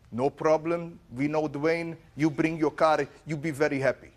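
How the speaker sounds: lightly put-on Armenian accent; imitated Armenian repairman. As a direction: imitate an Armenian mechanic in short, separate phrases. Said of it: "the Armenian auto body repair".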